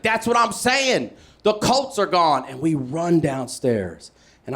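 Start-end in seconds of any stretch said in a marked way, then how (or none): 0.0-2.4 high, insistent repeat; exasperated dad. Retold or imitated. Dad repeating the news to his son, exasperated. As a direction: hammer the point home. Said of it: "He's like".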